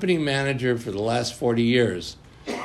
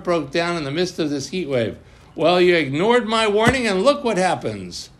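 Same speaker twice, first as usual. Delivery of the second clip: high, loud, indignant outburst; angry retort; 6 semitones higher, 3 dB louder than usual. Acted. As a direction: snap back at the boss. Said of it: "Tzvi shot back".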